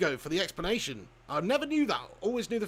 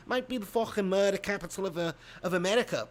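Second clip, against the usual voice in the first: mock Liverpool accent, less exaggerated; Scouse accent. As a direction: keep up a put-on Scouse accent. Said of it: "it sound like a Scouser".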